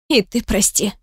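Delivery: lightly voiced tearful apology; sobbing mumble. A narrator's reading. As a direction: mumble it through held-back tears, understated. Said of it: "со всхлипом промямлила она".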